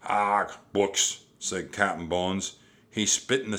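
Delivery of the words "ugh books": loud disgusted grunt; disgusted pirate. A narrator's reading. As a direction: spit it out with contempt. Captain disgusted by books.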